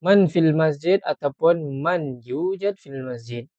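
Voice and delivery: slow careful Arabic model; slow teacher model; slow model sentence. Shown as a demonstration. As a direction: spell it out slowly for learners. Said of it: "macam mana tu nak kata".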